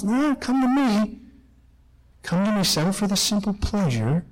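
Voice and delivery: a hint of evil drawing out the invitation. Evil calling against the voice of God, lightly coaxing. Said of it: "the voice of the evil is".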